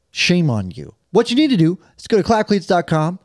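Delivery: host reading a sponsor spot. Acted. Host pitching sponsor socks to podcast listeners, ad read. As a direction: sell the socks like an ad.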